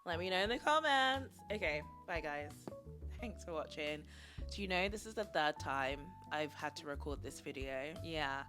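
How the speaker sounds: low, creaky YouTube voice; vocal fry. Real, not acted. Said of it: "a bit of, like, a vocal fry".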